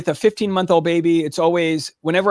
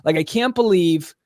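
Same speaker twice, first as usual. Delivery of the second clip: disappointed; 3 semitones lower than usual. Retold or imitated. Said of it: "as, like, disappointed as I could be".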